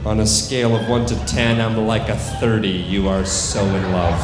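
firm, projected suggestion to a subject; stage hypnotist commands. Acted. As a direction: deliver it as a hypnotist's command to the room.

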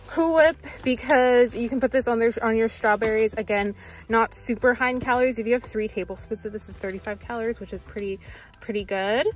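talking through a face mask; muffled voice behind a mask. Real, not acted. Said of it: "I'm talking through my mask".

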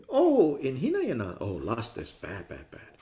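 a prissy "bad, bad" fading away; mock prim scolding. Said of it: "But it doesn't mean".

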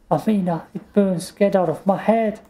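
put-on girl pleading with the witch in her head; pained plea. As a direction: beg the witch to leave. Tegan in pain from possession.

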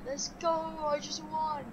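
high, soft, held-back celebration; restrained victory cheer. Real, not acted. Gamer after apologizing for a scream, quietly celebrating. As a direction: keep the cheer small but excited.

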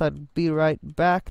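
a bad, half-hearted German accent. Builder signing off to viewers, mock German accent. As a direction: try a clumsy German accent, lightly. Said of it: "an attempt at a German accent".

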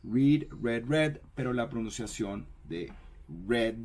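"Read, read, read" said reed, red, red; first "read" as reed, then twice as red; "read" as reed, then red, red like the colour. Shown as a demonstration. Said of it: "Es como si fuera el color rojo".

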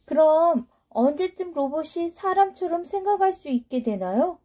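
put-on high, eager little kid; young child voice. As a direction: speak like a curious young child. Child asks.

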